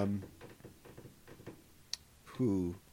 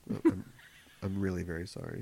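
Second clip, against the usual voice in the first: quieter, laughing fake-earnest sorry; mock sincere apology; 6 semitones lower, 6 dB quieter, faster than usual. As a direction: lay the apology on, half-laughing. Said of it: "Maybe say it like you mean it".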